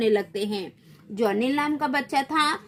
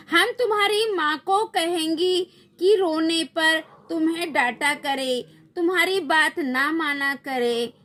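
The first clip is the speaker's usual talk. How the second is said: mock threat; 5 semitones higher than usual. Threatening to tell mother.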